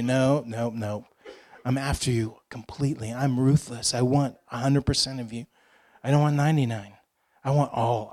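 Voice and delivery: low, hushed, insistent answer; gentle firm refusal. Acted. The Lord answering a tired believer, quietly relentless. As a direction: answer softly and low, giving no ground.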